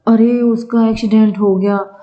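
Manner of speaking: acted exclamatory news; exclamation of dismay. Shown as a demonstration. Teacher acting someone reporting an accident, exclamatory. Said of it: "विस्मयादिबोधक".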